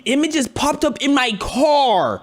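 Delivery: high-pitched incredulous protest; indignant disbelief. Real, not acted. Reactor objecting to the car's AI, indignant disbelief. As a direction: squawk it in comic indignation.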